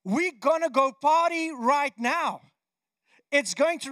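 Elijah cheering Ahab. Acted. Elijah tells King Ahab to celebrate, rousing. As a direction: call out the good news with energy. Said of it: "he says to him".

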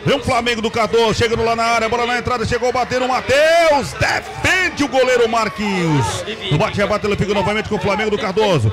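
live play-by-play. Acted.

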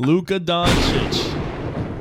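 put-on slow, drawn-out Italian accent. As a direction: stretch the name out like an Italian. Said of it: "but Luka Doncic said in an Italian accent".

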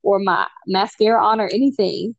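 disbelieving and fed up; exasperated. Retold or imitated. Retold reply, exasperated.

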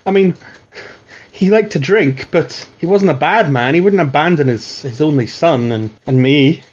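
a touch of a flustered, apologetic woman; lightly voiced weeping mother. Poor mother apologising to the Watch for her home, a touch tearful.

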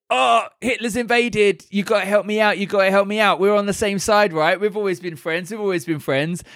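high, desperate pleading voice; pleading Stalin. Retold or imitated. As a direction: beg for help, whiny.

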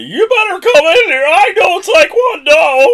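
very high, loud squeaky mimicry; pubescent voice breaking. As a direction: imitate a boy's cracking battle cry. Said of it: "breaking voice there of the puberty".

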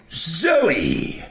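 calling out. A narrator's reading. Doctor greets his lost friend.

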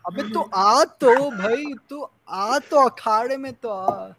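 high mock-Punjabi taunt sliding into Hindi; Punjabi accent drifting Hindi. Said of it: "That became more Hindi".

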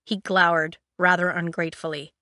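ordinary delivery, nothing marked

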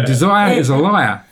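amateur attempt at an Australian accent; bad Australian accent. Storyteller repeating the novice's saying after apologising, in a bad Australian accent. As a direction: repeat the motto in a badly imitated Aussie accent. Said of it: "Forgive my bad Australian accent".

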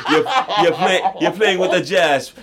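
put-on teasing French accent, laughing through it. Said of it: "He like, "I'm French".

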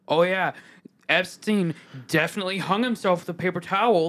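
over-agreeing sarcastic cadence. Shown as a demonstration. Showing a friend what sarcasm would be like, sarcastic. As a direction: lay on mock conviction, leaning on definitely. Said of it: "Sarcasm would be like".

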